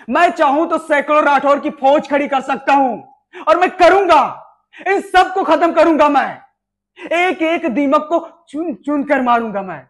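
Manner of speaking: angry vow. Acted. Officer vows to the major to wipe them out, angrily. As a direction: swear it through gritted teeth, then shout.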